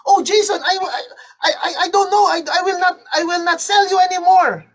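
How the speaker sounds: high, stammering protest; shocked. Acted. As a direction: play a shocked seller tripping over words. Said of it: "And Watara was shocked".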